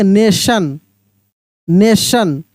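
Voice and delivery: "नेशन" with sh for the T. Shown as a demonstration. Teacher demonstrating the rule, "नेशन" with sh sound. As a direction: say "नेशन" as "ne-shan". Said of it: "तब टी को स पढ़ेंगे".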